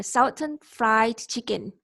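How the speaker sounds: southern said like south, with an ow vowel; mispronounced southern. Real, not acted. Student reading sentences aloud, southern with an ow vowel. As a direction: says southern as sow-thern. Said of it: "this we would say southern".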